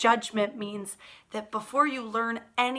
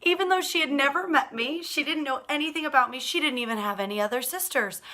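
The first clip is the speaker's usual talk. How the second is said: raised, quick indignant aside; indignant, higher and louder; 4 semitones higher, 4 dB louder, faster than usual. Real, not acted. Teacher tells the children her sister's unfair judgment, indignant. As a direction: protest how unfair it was, brisk and high.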